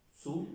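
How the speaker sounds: "Su" ending on an open vowel; silent final S. Shown as a demonstration. Teacher explaining the unpronounced S, demonstrated pronunciation. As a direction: say "Su" with no S at the end. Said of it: "la S no se pronuncia".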